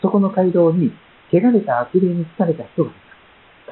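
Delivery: slow, weighty reading of the verse; preacher slowly reading the verse to the congregation; slow scripture reading. Shown as a demonstration. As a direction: read it out slowly and deliberately. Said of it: "三十三節".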